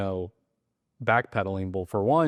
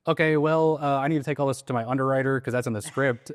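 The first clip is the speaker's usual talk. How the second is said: higher-pitched, oblivious agent voice; mock script reciting; 4 semitones higher than usual. Agent answering a seller's sad news from the script, obliviously. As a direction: plough into the script regardless, lightly mocking.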